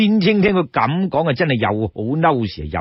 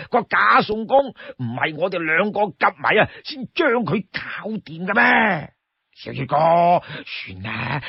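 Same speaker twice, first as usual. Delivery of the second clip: high, whining plea with stretched endings; pleading Li Kui; 3 semitones higher than usual. Acted. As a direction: beg and cajole your brother. Li Kui begs to come along.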